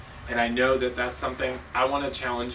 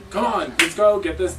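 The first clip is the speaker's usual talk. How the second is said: louder, higher hype call; raised voice; 6 semitones higher, 7 dB louder than usual. Shown as a demonstration. Coach raising her voice to pump up the team. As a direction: push them with a loud rallying call. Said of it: "sometimes you do need to raise your voice".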